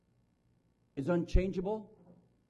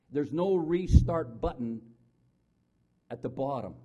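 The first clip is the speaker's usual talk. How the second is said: emphatic preaching; 7 dB louder than usual. Acted. Preacher hammering home a point.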